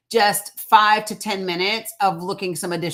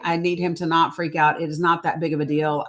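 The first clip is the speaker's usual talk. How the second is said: normal talking voice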